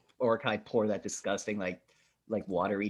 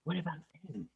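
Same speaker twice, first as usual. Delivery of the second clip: higher, sly creature voice; goblin-like orc; 5 semitones higher than usual. Acted. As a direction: play a hungry goblin eyeing a meal. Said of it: "that one goblin, uh, orc".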